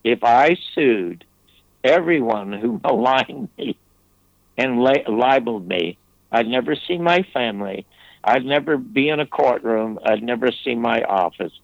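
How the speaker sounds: a retold calm reply to a sobbing friend. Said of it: "in a really calm voice".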